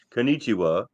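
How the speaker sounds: put-on East Asian accent, pushed gruff and manly; a lightly done macho East Asian accent; masculine Asian voice. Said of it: "my, uh, very masculine Asian voice".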